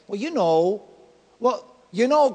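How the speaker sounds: "Well, you know" said hesitantly, like half a guess; unsure you know. Shown as a demonstration. Preacher showing the church the wrong, doubtful sense of know, hesitantly. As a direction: shrug it off as if not certain. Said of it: "kind of almost like you're not sure".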